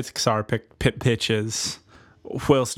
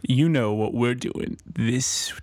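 sexy voice; slower than usual. Pretend. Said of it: "saying it in a deceptively sexy voice".

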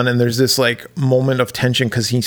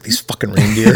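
frustrated. Retold or imitated. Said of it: "getting really frustrated".

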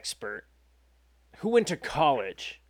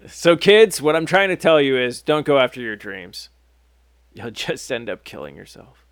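mock moral; 7 dB louder than usual. Mock moral lesson after dark ending.

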